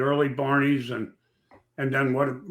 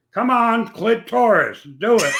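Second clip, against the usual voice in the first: higher, louder cheering call into the mic; mock announcer yell; 8 semitones higher, 6 dB louder than usual. Lou retelling how he cheered a racer over the microphone, hammed-up loud call. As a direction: egg the racer on over the PA, half laughing.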